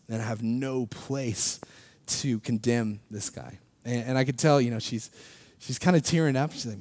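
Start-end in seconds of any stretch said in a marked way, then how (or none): 0.1-3.6 slow sincere. Retold or imitated. Earnest testimony to sheriff.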